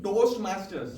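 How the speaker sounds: Toastmasters, loud, each consonant hit; over-enunciated. Shown as a demonstration. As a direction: bite every sound of Toastmasters. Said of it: "overpronounce everything".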